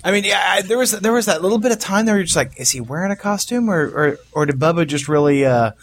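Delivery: joking excitedly about the fat suit; amused disbelief. Real, not acted.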